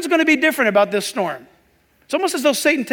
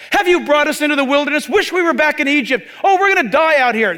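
whining Israelites; 5 semitones higher, 3 dB louder than usual. Acted. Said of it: "children of Israel accused God".

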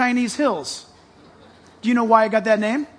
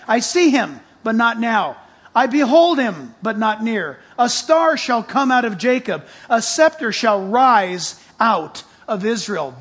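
yelling scripture; 3 dB louder than usual. Real, not acted. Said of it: "I'm yelling at you guys".

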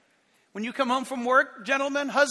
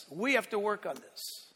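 softer repeat; 3 semitones lower, 7 dB quieter than usual. Shown as a demonstration. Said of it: "The tone of our voice matters".

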